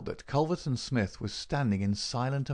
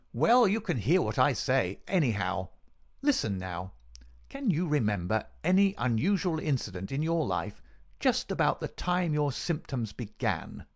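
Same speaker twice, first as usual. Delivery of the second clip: higher-pitched, pressing interrogation; insistent villain; 5 semitones higher than usual. Acted. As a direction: press the sick man to remember.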